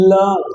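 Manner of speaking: "লাভ" with a deep, stressed first l. Shown as a demonstration. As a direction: press deeply into the l of "লাভ". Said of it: "গভীর করে বলতে হবে".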